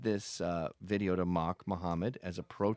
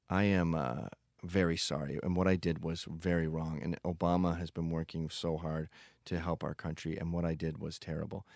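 coerced confession; 4 semitones lower than usual. Retold or imitated. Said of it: "it sounded like someone in Czechoslovakia under Stalin".

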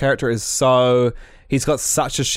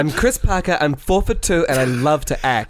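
put-on flamboyant kid; 3 semitones higher than usual. Mimicking flamboyant kid Chris.

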